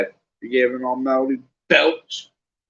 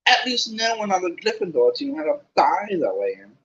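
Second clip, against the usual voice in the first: sharp; 5 semitones higher than usual. Acted. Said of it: "said Hermione sharply".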